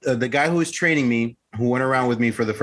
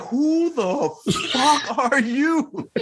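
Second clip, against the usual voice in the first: laughing mock challenge; much slower than usual. Stepbrother opens the door.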